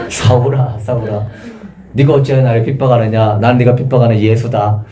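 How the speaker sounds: understated, unforced address with no grandeur; humble, respectful Jesus. Acted. Preacher voicing Jesus addressing Saul, humble and plain. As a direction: speak humbly, without any show of majesty. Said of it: "겸손하게 존중하는 마음으로 대우하셨구나".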